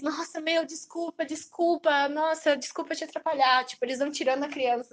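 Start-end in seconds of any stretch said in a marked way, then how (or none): 0.0-3.6 mock desperate apology.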